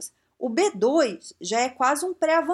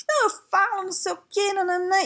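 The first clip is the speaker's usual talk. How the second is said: mock boastful learner; 10 semitones higher than usual. Mocking someone who overrates themselves.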